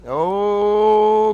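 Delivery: high drawn-out announcer oh; 1940s announcer exclamation. Acted. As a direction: sing out the oh like a newsreel. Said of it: "I'm a nineteen forties news announcer".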